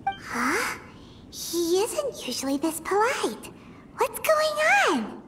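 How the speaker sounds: hushed, puzzled aside. Acted. Paimon confides to traveler about Xiao, hushed and puzzled. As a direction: mutter it quietly to the traveler.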